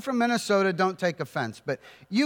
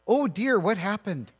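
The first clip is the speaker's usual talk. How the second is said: fussy aunt; 2 semitones higher than usual. Retold or imitated. Imitating the customer service lady as a doting aunt. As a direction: play a doting aunt on the phone. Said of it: "Apparently my aunt got on the phone".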